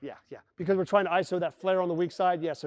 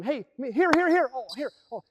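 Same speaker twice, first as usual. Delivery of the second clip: calling for the ball; 5 semitones higher than usual. Retold or imitated. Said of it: "and you're, like".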